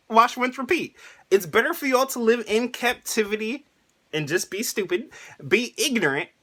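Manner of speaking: high, bossy retold Mom; hammed-up mother ordering the kids around; mock Mom lecture. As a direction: squeak out Mom's scolding in a high voice. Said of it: "Mom's like".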